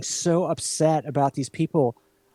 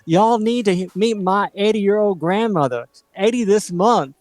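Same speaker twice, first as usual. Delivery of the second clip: put-on a lightly done Mississippi Southern accent, a touch higher; 3 semitones higher than usual. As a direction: play a proud Southern granddaughter, Mississippi accent. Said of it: "I'm doing my, my best Mississippi accent".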